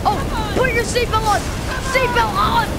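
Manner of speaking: loud, high urgent yell; screaming. Real, not acted. Gamer yelling at characters during the crash, loud. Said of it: "I was screaming".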